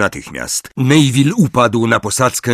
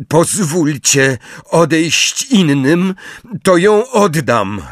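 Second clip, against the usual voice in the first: defiant Harry; 7 semitones higher, slower than usual. A narrator's reading.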